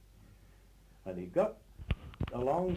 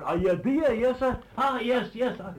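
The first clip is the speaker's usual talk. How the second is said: loud, higher call through cupped hands; shouted call; 9 semitones higher, 9 dB louder than usual. Retold or imitated. Traveller calling down to the crowd on the quay, shouting. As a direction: hail someone far below on the quay. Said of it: "he cupped his hands and he shouted".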